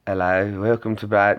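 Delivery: mock his channel intro lightly; imitating Brad. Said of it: "I'm trying to do, doing your voice".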